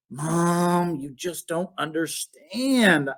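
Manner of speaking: put-on slow, sulky kid's complaint; sulky mumble. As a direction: drag it out like a moping child. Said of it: "I mumbled".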